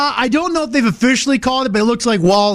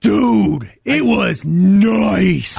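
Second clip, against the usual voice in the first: savoring; much slower than usual. Real, not acted. Savoring the new furnace.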